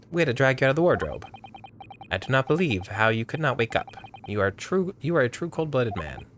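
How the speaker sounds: lightly voiced game character, accusing; own unique character voice. Accuser to the man found in the wardrobe, lightly voiced character. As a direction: give him a lightly put-on character voice. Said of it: "give him his own unique voice".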